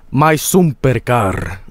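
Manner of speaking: slow mock-Finnish "sumper car"; Finnish accent. Streamer mimicking the game's developer, mock Finnish accent. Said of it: "the Finnish accent".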